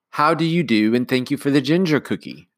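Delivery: high, crisp, formal nanny greeting; a no-nonsense nanny being proper; prim nanny. Acted.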